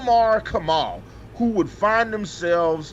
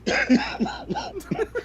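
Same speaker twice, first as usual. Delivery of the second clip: breathy laugh; 3 dB quieter than usual. Real, not acted. Laughs mid sentence.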